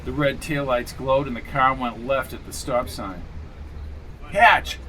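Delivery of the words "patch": higher, louder shout of his name, falling. A narrator's reading. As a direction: call Patch across the lot, loud. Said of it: "shouted Sherry from the fence".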